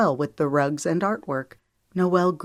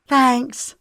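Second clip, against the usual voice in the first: appreciative; 9 semitones higher, 5 dB louder than usual. A narrator's reading. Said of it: "Noelle said appreciatively".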